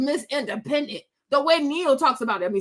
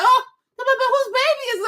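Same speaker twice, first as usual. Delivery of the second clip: high innocent voice; 10 semitones higher than usual. Pretend. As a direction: feign innocence, pitched up. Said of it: "just be like".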